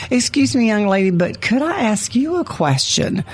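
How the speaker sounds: butter her up with exaggerated courtesy; mock sweet politeness. Older woman to teen girl in the waiting room, mock sweet.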